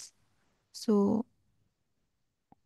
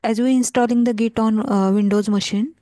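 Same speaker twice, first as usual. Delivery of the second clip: speaking up, louder; 6 dB louder than usual. Real, not acted. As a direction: raise the volume, speak up clearly. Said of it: "Can you please increase your little volume".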